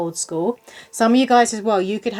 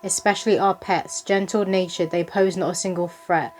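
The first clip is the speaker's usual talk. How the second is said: measured, rhythmic verse reading, slightly slowed; poem reading. Acted. Reader delivers a spirit baby's poem to the viewers, measured verse reading. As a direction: read it out as rhyming verse, line by line.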